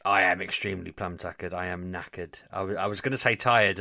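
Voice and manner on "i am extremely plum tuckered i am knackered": ordinary talk, nothing marked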